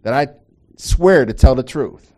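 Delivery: a sworn witness taking the oath; courtroom oath. Retold or imitated. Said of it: "make you speak it".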